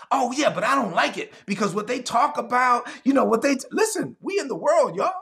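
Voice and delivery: congregant's whining excuse; whiny congregant. Retold or imitated. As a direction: whine about coworkers' talk. Congregant voiced complaining.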